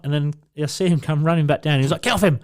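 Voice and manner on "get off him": retold shout. Mate shouting to rescue him.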